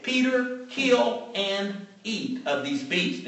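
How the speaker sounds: slow, commanding voice of heaven. Retold or imitated. Preacher voicing heaven's command to Peter, slow and solemn. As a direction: hand down the command slowly and gravely.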